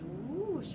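drawn-out whoosh, pitch swooping up and down; imitated whoosh. Shown as a demonstration. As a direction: swoop through the word whoosh. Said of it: "it's like this".

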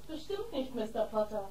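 soft secret goodbye; hushed whisper. Acted. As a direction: whisper it tenderly.

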